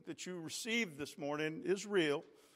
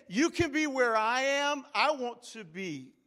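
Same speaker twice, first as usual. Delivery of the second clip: higher voice of Jesus' invitation; voicing Jesus; 6 semitones higher, 4 dB louder than usual. Preacher voicing Jesus to the church, higher. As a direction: offer it as Jesus would. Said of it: "He's saying".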